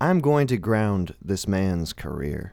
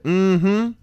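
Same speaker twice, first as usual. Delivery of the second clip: high, louder sassy agreement; affirming mm-hmm; 10 semitones higher, 5 dB louder than usual. Retold or imitated. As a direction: hum a knowing yes. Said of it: "every single one of them said".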